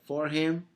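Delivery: HIM pushed up high and loud; emphasis on HIM. Shown as a demonstration. Teacher stressing HIM for the class. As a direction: lean hard on HIM. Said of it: "And the emphasis of lo".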